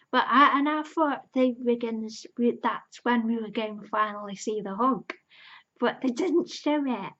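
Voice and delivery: loud, high fan outcry; real disbelief, rising and loud; excited dismay. Real, not acted. Fan telling her friend the missed hug, loud excited outcry.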